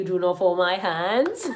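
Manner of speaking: slow, emphatic begging. Real, not acted. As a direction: plead it out, drawn out. Begging viewers again.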